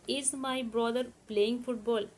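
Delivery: very slow, word by word for students to write; slow, careful dictation pace. Shown as a demonstration. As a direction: spell it out slowly for the class to copy. Teacher dictating English question.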